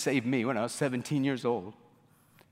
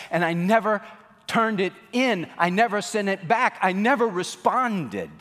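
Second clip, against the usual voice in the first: higher, louder, upset retelling; tearful confession; 6 semitones higher, 3 dB louder than usual. Retold or imitated. Wife explaining to her husband, tearful and higher. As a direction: pour out the regret. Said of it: "she burst out in tears".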